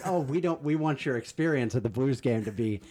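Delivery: mock customer-service sweetness; passive-aggressive. Angela assuring an unhappy fan about the game, passive-aggressive. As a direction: imitate oh-so-concerned politeness with a barb in it. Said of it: "passive aggressive".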